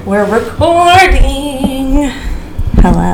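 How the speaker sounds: high, slow, sing-song greeting; sweet, singing customer service voice. Acted. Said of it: "Carrie is gonna use her customer service voice".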